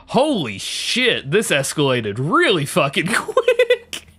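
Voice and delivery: slow, drawn-out disbelief at how fast it escalated; stunned disbelief. Retold or imitated. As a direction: let each word land slowly, amazed and half laughing. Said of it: "And I'm like".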